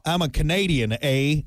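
lightly mocked Canadian accent. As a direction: stock Canadian with a tagged-on "eh". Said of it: "many Cana".

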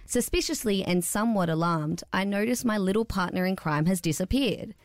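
reading a story aloud. Acted. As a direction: read it like a storybook. Reads a story aloud on air.

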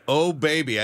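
hair-raising broadcaster's shout, mildly imitated; excited home-run call. Host imitating Ken Wilson's famous call, mock excited shout. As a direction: belt it out like a big moment on air. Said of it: "there's nobody that got excited like Ken Wilson got excited".

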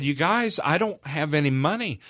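high-pitched retold protest; imitating an exasperated mom; exasperated mother. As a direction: plead with the kids as their worn-down mother. Mother pleading with insistent children.

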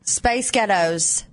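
put-on slow try at a Scottish band name; attempted Scottish accent. Shown as a demonstration. Trying out the meme phrase, attempted Scottish accent. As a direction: test it slowly as a Scot might. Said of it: "Scottish accent".

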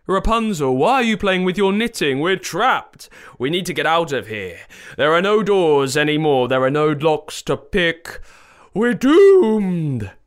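stressed, building to despair; panicking prince. Acted. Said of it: "getting a bit stressed".

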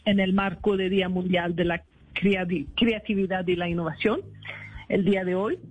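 Swedish accent Spanish. Real, not acted. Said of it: "perdonen mi español".

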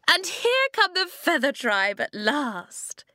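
high, drawn-out villainess call; cackling Ice Queen. A narrator's reading. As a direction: call out slowly and high, like a gloating evil queen. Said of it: "but the Ice Queen only cackled".

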